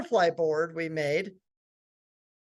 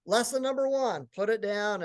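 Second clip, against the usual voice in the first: lightly imitated teen girl instructor, higher; girl's video lesson; 4 semitones higher than usual. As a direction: mimic a high schooler teaching on video. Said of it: "And so she goes".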